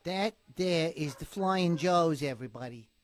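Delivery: lightly hammed-up character voice; put-on voice. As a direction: draw it out in a playful put-on voice. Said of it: "you're into voices tonight".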